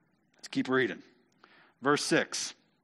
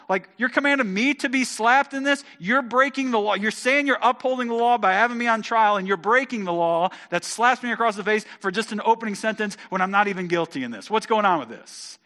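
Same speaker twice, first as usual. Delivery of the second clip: indignant protest, raised pitch and volume; Paul; 7 semitones higher, 5 dB louder than usual. Acted. Paul objects to being slapped on trial, loud and indignant. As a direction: argue back hotly, easing slightly toward the end. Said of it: "Paul spats back to the high priest".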